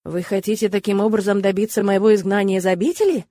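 understated suspicion; mildly wary question; suspicious. Acted. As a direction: ask it with a touch of distrust. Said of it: "С подозрением спросила я".

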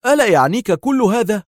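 high, loud exasperated question; nervy outburst; agitated. A narrator's reading. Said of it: "فاستطرد يائيل في عصبية".

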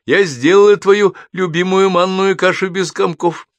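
high, loud motherly call; calling after. A narrator's reading. Mother to departing son about his favourite porridge, calling after. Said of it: "кричит мать уже вслед".

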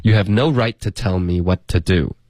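"right to" and "what to" as matching beats; strong rhythm. Shown as a demonstration. Teacher repeats the line to show the beat, rhythmic. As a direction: keep "to" short and weak in a steady rhythm. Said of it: "有没有听到这个哒哒".

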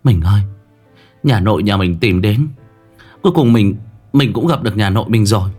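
wife calling out to her husband; a touch of joyful urgency; emotional breathless news. Acted.

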